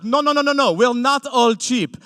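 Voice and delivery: high, loud indignant protest; mock protest. Mocking the other Jews' defensive protest. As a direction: squeal it like an offended snob.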